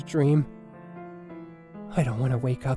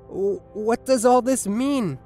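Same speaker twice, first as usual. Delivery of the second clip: higher-pitched, puzzled question; bewildered dreamer; 5 semitones higher, 4 dB louder than usual. Acted. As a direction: stammer into it, baffled. Dreamer confused by wedding vision.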